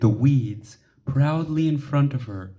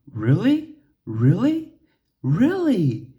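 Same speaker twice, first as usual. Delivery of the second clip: excited; 9 semitones higher, 3 dB louder than usual. Acted. Lily excitedly repeating.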